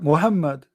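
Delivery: Muhammad with a plain English H; Western pronunciation. Shown as a demonstration. Speaker answers "you say what", Western pronunciation. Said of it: "You say what?".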